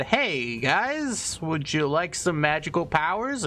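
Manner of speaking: lightly playful, lilting offer; lightly voiced orb. Voices the orb's friendly offer.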